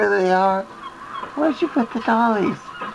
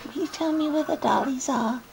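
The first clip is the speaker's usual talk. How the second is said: whispering over a crib; 4 semitones higher, 9 dB quieter than usual. Real, not acted. Quiet pleading near sleeping child.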